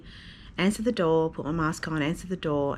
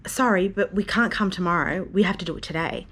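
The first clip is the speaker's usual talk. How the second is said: rude official; 3 semitones higher, 3 dB louder than usual. Retold or imitated. Mother mimicking the rude health worker at her door, snippy. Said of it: "the lady that spoke to me so rudely".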